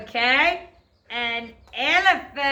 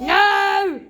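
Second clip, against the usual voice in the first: firm no; 5 semitones higher, 5 dB louder than usual. Real, not acted. Firm correction of class.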